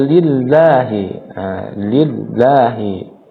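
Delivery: slow "lillahi" with a light, thin double l; thin lam. Shown as a demonstration. Teacher modelling lillah, thin lam. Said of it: "lam tidak dibaca tebal".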